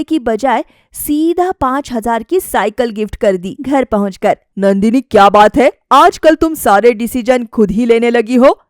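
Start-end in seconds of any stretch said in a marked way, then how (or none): 4.6-8.6 louder, accusing husband; annoyed husband. Acted. Husband Suraj confronts Nandini over the gift, annoyed and louder. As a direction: confront her about her choices.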